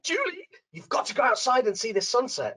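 breathless excitement; excited call to sister. Retold or imitated. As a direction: share the wonder of a sunset. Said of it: "She was so excited".

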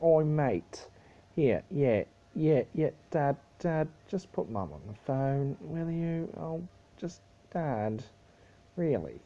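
Australian accent. Shown as a demonstration. Showing how Australian is done, Australian accent. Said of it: "that's how you do an Australian accent".

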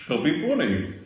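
cheeks stuffed full. Real, not acted. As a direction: mouth full. Marshmallows stuffed in mouth.

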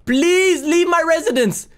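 slow, drawn-out pleading; exasperated play-acted begging. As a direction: plead with her, stretching out the please. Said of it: "I'm begging you".

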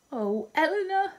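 high, tearful cry of a name; weeping. A narrator's reading. Marianne on her bed calls her sister, weeping high. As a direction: let the name break into weeping. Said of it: "wept Marianne".

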